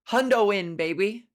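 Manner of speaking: loud catchphrase with swagger; hyped catchphrase. Real, not acted. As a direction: sell it like a slogan. Hyping catchphrase.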